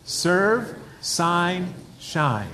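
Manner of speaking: each word set apart, falling on shine; slow deliberate list. Shown as a demonstration. Pastor drilling the congregation on three words, deliberate. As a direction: spell out "Serve, sign, shine" word by word. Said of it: "Can you say that with me".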